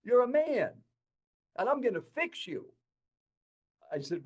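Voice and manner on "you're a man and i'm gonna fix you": retold yell. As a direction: bark it like an old principal scolding a crying young man. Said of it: "he yelled at me".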